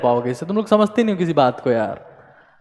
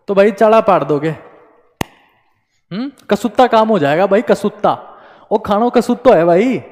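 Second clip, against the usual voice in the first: light Haryanvi accent, a bit louder, like a cricket commentator; 3 semitones higher, 4 dB louder than usual. Shown as a demonstration. Teacher joking to exam students in a light Haryanvi accent. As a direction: lay on a playful Haryanvi twang for the students. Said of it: "मैं थोड़ा Haryanvi tone में बोल रहा हूँ".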